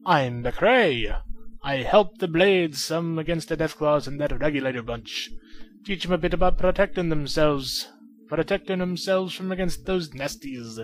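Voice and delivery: light put-on Scottish accent for the old fighter. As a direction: read it as a hinted Scottish brawler. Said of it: "reading him in his accent".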